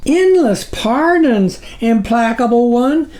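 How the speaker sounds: small figure's high nervous apology; groveling tiny creature. A narrator's reading. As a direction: beg the giant for pardon. Small figure pleads with sublord.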